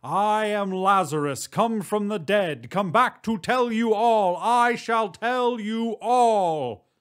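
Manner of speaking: prophet's slow rising cry from the grave; declaiming as Lazarus. Acted. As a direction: rise up like a man back from the dead, announcing it. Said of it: "to say".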